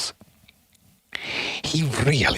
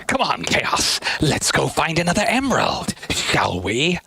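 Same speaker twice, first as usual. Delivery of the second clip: a hint of the villain, raised; Eggman voice; 6 semitones higher than usual. Streamer voicing the villain to his monster, coaxing. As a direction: coax a pet monster along.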